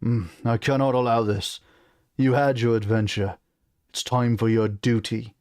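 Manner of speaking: stern British king; British accent. Acted. King forbids his son to go, stern British accent. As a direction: lay down the law in a British accent. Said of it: "on the British accent".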